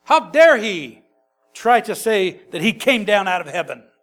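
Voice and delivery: a touch of mock outrage; outraged crowd. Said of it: "is what they're saying".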